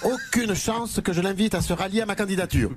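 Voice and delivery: caricatured politician, emphatic refusal; Eric Ciotti. Acted. Candidate refuses to welcome his rival, emphatic politician caricature. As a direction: stress the refusal after a short pause. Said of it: "Éric Ciotti".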